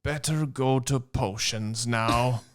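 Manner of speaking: slow, lightly voiced Hagrid; a hint of the lumbering half-giant. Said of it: "said Hagrid".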